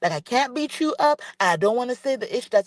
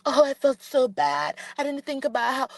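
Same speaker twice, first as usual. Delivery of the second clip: mocking quote; 4 semitones higher than usual. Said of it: "here you go bowing down".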